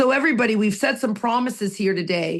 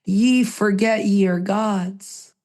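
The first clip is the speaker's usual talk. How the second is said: solemn quote; slower than usual. Retold or imitated. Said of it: "Remember what your friend said".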